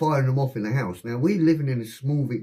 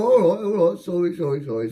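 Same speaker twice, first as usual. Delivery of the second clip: high, loud placating babble; mock flustered apologising; hurried apology; 8 semitones higher, 4 dB louder than usual. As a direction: back down fast, voice raised. Housemate apologising after being shouted at.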